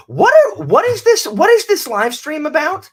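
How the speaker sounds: very high, loud burst of bafflement; mock outraged shout. Guest heckling the host's live stream, mock outraged high yell. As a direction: yell it at a high pitch, demanding an answer.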